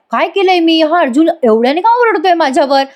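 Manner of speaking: acted startled bewilderment; bewildered protest. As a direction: wonder why you are being yelled at. Priya's startled thought on being shouted at.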